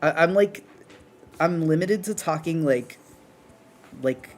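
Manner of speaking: talking through a barely open mouth. Real, not acted. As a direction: speak with lips almost closed. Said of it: "I can't open my mouth very wide".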